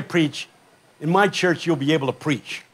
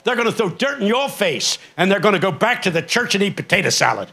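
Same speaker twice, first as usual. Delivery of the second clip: put-on old preacher's warning; 2 semitones higher than usual. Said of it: "he talks like that".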